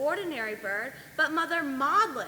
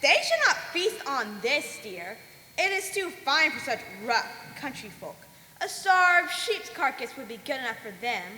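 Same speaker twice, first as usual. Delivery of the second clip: witch's scorn; 5 dB louder than usual. Acted. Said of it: "she looked rather strange".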